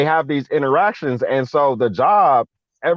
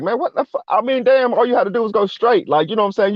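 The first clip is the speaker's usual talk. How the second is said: higher-pitched mild exasperation; retold frustration; 9 semitones higher, faster than usual. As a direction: voice his frustrated thoughts, pitch raised. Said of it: "frustration built up".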